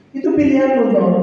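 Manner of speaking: a teacher coaxing the answer out; the voice of God quizzing a husband; probing God voice. Retold or imitated. God questioning him.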